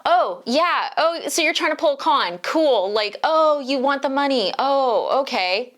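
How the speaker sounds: lightly sarcastic brush-off to the agent; sarcastic mock reply. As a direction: mockingly play along with the scammer. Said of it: "Miss Scam-a-Lot".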